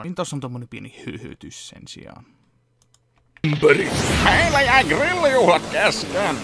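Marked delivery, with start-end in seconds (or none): 3.4-6.4 high, loud character cry; cartoon character yell. Cartoon character crying about the interrupted barbecue.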